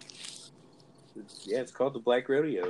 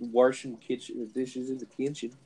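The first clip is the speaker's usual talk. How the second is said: "washing" as "warshin'", "kitchen" as "kinchen", country accent; 2 semitones higher than usual. Shown as a demonstration. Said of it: "I used to talk like that too".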